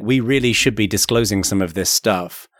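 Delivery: ordinary talk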